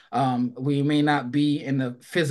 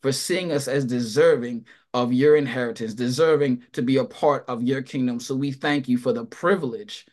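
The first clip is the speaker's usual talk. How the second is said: earnest spoken prayer to God. Acted. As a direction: pray it out with reverence. Leads the congregation in prayer.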